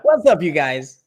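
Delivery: pinched-nose YouTuber greeting; loud slow nasal greeting. Acted. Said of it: "You gotta plug your nose".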